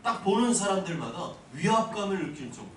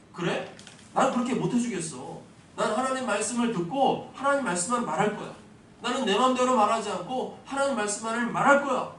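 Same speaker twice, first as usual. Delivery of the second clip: firm, raised, louder declaration cutting him off; flat refusal; 5 semitones higher, 5 dB louder than usual. Retold or imitated. Balaam refusing King Balak outright, firm and raised. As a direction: say it as a resolute no that ends the argument. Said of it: "잘라 말했어요".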